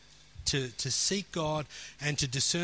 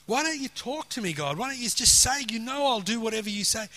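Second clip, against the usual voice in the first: frustrated plea, pitched higher; retold frustration; 5 semitones higher than usual. Preacher retells begging God to talk to him, frustrated. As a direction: re-enact an exasperated appeal to God. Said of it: "I was getting really frustrated".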